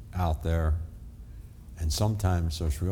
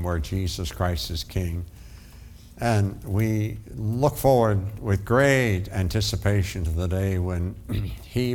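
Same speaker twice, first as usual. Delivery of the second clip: closing prayer. Acted. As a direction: pray it out as a preacher.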